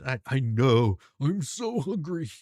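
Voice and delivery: drawn-out pretend hungry whine; mock whining. Partner complaining to judge about eating habit, mock whine. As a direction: whine it slowly, hamming up the hunger.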